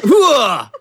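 sharp high grunt like a serve; tennis grunt. Pretend. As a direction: grunt as if hitting the ball. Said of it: "I'm in a tennis match right now".

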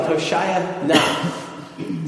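"Hoshaya na" spaced out slowly, NA set apart; Hebrew pronunciation. Shown as a demonstration. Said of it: "it sounded something like".

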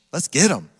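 loud rallying cry to the church; rallying shout. Real, not acted. Pastor urging congregation to invite friends, loud. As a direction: fire up the room.

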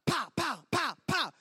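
punchy play-shooting "pow"; imitated toy gunshots. Little boy playing cops and robbers with the crowd, imitated gunshots. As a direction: fire off pretend shots, each one falling.

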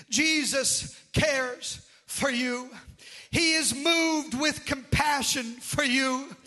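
slow, building, loud sermon cry; rising preacher's roar over the congregation; full-force preaching. Acted. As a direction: preach it out, pounding each word. Preaching on Jesus' compassion.

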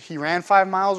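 "five" held out and leaned on; he ran FIVE miles; stress on five. Shown as a demonstration. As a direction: push the number "five". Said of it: "well, is it".

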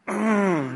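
short hummed mm of frustration; frustrated grunt. Shown as a demonstration. Pastor leading the congregation in a frustrated mm. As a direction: hum a fed-up mm. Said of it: "Let's practice it".

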